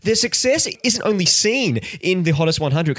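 light sportscaster read, rising toward the end; sports commentator voice. Acted. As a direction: analyse it like a TV sports pundit. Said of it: "Can I stop doing this sports commentator voice?".

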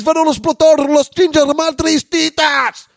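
very high, loud fake Spanish accent; mock Spanish. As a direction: shriek it in hammed-up Spanish. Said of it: "he only speaks Spanish".

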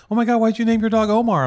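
high, loud imitation of astonished women; mock an aghast passer-by; incredulous strangers. Mimics shocked women at flea market.

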